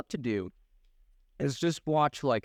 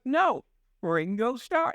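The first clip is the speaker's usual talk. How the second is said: imitating the girls; 8 semitones higher, slower than usual. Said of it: "they're just like".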